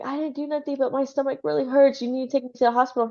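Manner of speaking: mock pleading. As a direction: imitate a hurt wife begging for help. Voicing the hurt wife pleading.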